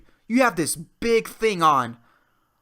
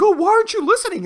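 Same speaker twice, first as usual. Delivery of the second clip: mock annoyed old person; 13 semitones higher, 7 dB louder, much faster than usual. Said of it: "they get mad, like".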